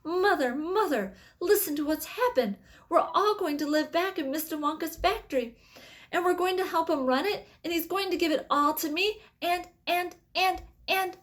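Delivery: put-on high, breathless eager child; excited boy. A narrator's reading. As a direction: gush the good news to mother. Charlie bursts with news.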